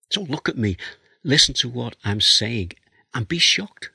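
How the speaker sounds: impassioned plea. Acted. Preacher voicing Job's plea.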